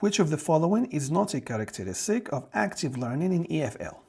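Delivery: slow, careful reading of an exam item; reading question aloud. Acted. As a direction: read the question out slowly for the class. Reads next exam question.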